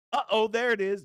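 high, loud delighted call; excited. Real, not acted. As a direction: hype up the new comment. Chat message pops up.

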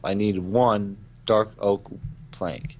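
slow repetition, each word separate; slow deliberate repeat. Real, not acted. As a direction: spell it out slowly, annoyed. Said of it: "I repeat, I will repeat myself".

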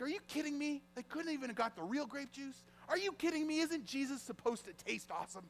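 high-pitched, hushed complaint, acted out; mock grumbling. Churchgoer complaining about cheap communion juice, mock grumbling. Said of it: "we start to grumble, don't we?".

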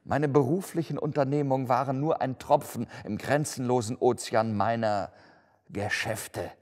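declaiming lament, building in force; anguished ghost. Acted. (klagende, sich steigernde Geisterstimme)

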